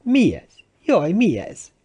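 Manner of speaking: high-pitched frightened questioning; acted panic at something unknown; alarmed. A narrator's reading. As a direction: cry out in rising alarm. Timmons alarmed by the nets.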